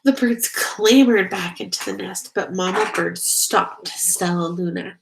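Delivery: gentle read-aloud storytelling voice; story narration. Acted. Narrator reading a bat story to children, gently. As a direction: read it like a bedtime picture book. Reads picture book aloud.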